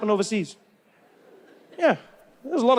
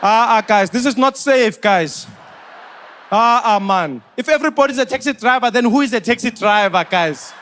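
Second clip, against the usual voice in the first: loud complaining taxi driver; louder, protest like a scandalised taxi driver; indignant taxi driver; 3 dB louder than usual. Retold or imitated. A taxi driver complaining that everyone drives like a taxi, loud indignant. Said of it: "Even taxi drivers are on the side like".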